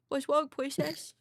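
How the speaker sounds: slow, high, lightly sweet princess voice; cooing the question like a princess; sweet fairy tale princess. Retold or imitated. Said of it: "The princess voice has been ruining my life".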